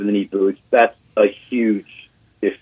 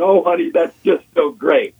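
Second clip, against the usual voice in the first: higher-pitched mock sweet gal; put-on polite delight, pitched up; dainty excited gal; 9 semitones higher than usual. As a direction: imitate a gal gushing politely. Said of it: "one of those gals that gets excited and kinda taps you".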